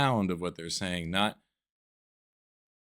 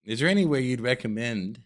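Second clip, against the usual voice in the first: proper tourist voice. Pretend. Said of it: "I'd be like".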